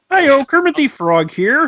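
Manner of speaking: very high-pitched, loud voice. Joining in with the only impression they can do: Kermit the Frog voice. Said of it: "you wanna do Kermit?".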